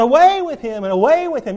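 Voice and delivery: the Jews crying out against Jesus, loud and angry; crowd crying out. Acted. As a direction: call it out like an angry mob. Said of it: "They cried out".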